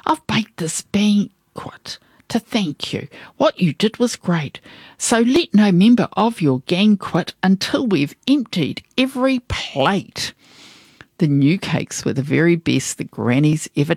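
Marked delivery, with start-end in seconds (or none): 0.1-10.3 put-on genteel old lady voice. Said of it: "she said".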